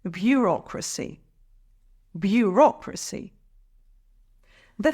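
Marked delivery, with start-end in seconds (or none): 0.0-3.3 "Bureaucracy" with the second syllable stressed. Shown as a demonstration. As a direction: model "Bureaucracy" clearly, leaning on its second syllable. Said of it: "Emphasize the second syllable".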